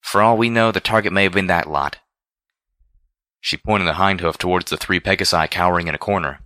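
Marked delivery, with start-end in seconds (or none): 0.0-2.0 blurting out. Acted. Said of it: "Rainbow Dash blurted out".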